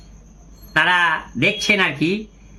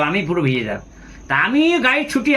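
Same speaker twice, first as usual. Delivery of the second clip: ordinary delivery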